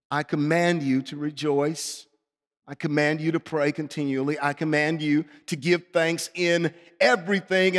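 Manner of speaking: lightly voiced, unbending command; firm divine refusal. God answering the reluctant preacher, firmly commanding. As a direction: play a calm authority allowing no argument.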